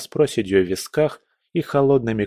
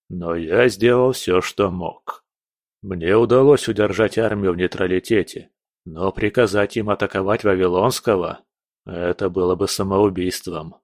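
lower, steady voice of a seasoned general; calm general; 4 semitones lower than usual. Acted. General warns the prince of the enemy, low and steady. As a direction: report the bad news without flinching. General explains army's view.

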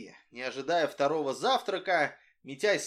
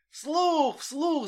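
put-on high, louder chanting of the children; crowd clamouring; 12 semitones higher, 4 dB louder than usual. A narrator's reading. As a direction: shout it as a noisy crowd. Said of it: "зашумели кругом".

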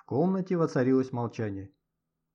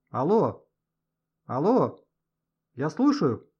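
calling loudly into a bad phone line; straining shout; 2 semitones higher, 5 dB louder, much slower than usual. A narrator's reading. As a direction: shout into the crackling receiver. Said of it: "надрывался Гошка".

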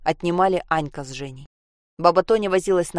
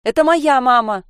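excited shout; 7 semitones higher, 8 dB louder than usual. Acted. Girl shouting at the door.

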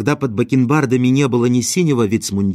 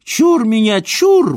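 much higher, louder, operatic bass-style cry; an opera singer's intonations; 11 semitones higher, 5 dB louder, slower than usual. A narrator's reading. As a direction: ham it up like a famous opera bass in Boris Godunov. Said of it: "с интонациями оперного певца в голосе". (громкий оперный возглас, как у оперного певца)

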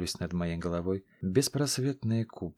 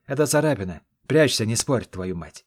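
gruff brush-off; 6 dB louder than usual. Acted. Wounded hero brushing off concern.

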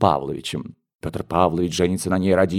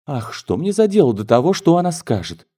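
dismissive exclamation; 6 semitones higher than usual. Acted. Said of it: "воскликнула Юлия Николаевна".

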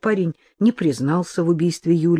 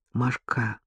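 soft, lowered call by name; quiet; 4 semitones lower, 6 dB quieter than usual. A narrator's reading. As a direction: say the name low and gently. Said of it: "тихо сказал Сергей".

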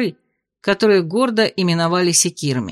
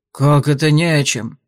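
indignant; 5 semitones lower than usual. A narrator's reading. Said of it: "возмутился Олер".

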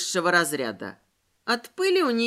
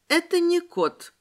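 higher, slow, composed statement; calm; 7 semitones higher than usual. A narrator's reading. Вероника corrects the neighbour, calm. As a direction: repeat it slowly and unruffled. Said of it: "повторила Вероника спокойно".

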